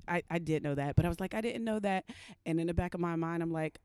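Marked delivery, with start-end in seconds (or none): 1.3-2.0 higher-pitched feigned ignorance; mock innocent. Woman pretending ignorance to officer, mock innocent. Resumes innocent act for cop.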